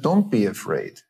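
flat, quick dismissal of fear; unskillful brush-off. Shown as a demonstration. Parent dismissing a scared child, mildly curt. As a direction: shut the feeling down with logic. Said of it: "which is a very unskillful intervention".

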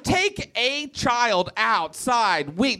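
very slow, word by word; laboured mouthful. Shown as a demonstration. Comedian shows the name is a mouthful, slow and laboured. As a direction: stretch out every word of the long title. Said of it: "That's a mouthful".

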